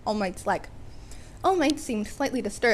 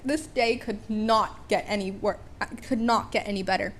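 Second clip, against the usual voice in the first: sarcastic; 2 semitones lower than usual. Retold or imitated. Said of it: "just a sarcastic".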